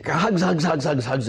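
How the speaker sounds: put-on God cooing to his child, lightly high; tender cooing. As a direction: coo like holding a child. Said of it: "as he calls you by name".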